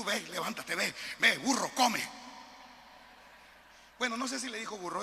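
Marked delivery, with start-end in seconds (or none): 0.0-2.0 a hint of a gruff northern Mexican prod; mock-shoo him along like a farmer; joking Sonoran Spirit voice. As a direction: Spirit pushing Peter, jokingly Sonoran, louder at the end. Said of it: "eso es sonorense".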